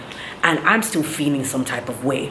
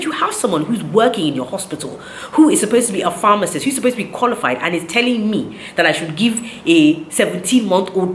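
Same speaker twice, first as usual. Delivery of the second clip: mildly indignant, higher-pitched complaint; retold upset; 3 semitones higher than usual. Mother retelling her complaint about the pharmacist, mildly indignant. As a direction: re-enact taking the doctor to task. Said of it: "At this point, I was very upset".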